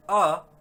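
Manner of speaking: अ held long and loud, on its own; स्वर का उच्चारण. Shown as a demonstration. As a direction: sound out a pure, drawn-out अ. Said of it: "आ की ही ध्वनि बाहर निकलती". (अ को अकेले, लंबा और ज़ोर से बोलें)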